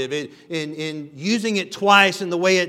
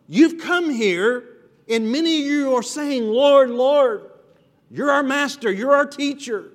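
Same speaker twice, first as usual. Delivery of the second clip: emphatic preaching; 6 semitones higher, 4 dB louder than usual. Acted. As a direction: preach it up high and hard as the crowd's boast. Jesus voicing the crowd's claims.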